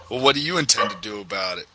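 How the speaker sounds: fast, through a mouthful of food; mouth full. Acted. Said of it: "with a mouthful".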